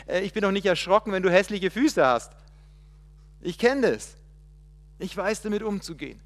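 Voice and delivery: loud, quick, pressing divine voice; God's voice. Acted. Preacher speaking as God to Moses, loud and fast.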